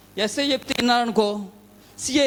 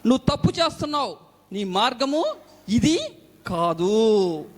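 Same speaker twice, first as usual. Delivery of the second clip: voice of God; 2 semitones higher, slower than usual. Retold or imitated. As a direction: speak as God warning him. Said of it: "మాట్లాడిన స్వరం ఏమని తెలుసా".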